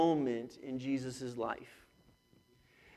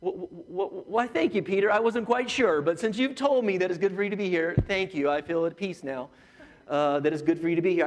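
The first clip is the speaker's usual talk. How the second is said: mock sarcastic God. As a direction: sarcastically thank Peter for his opinion. God's sarcastic reply to Peter.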